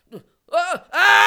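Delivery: high loud scream. Acted. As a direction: scream as the blast hits. Hit by meteor blast.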